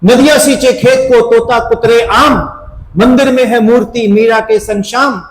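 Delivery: lightly performed recitation; reciting verse. Retold or imitated. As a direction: declaim the verse like a tipsy teacher. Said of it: "अब कहते ना".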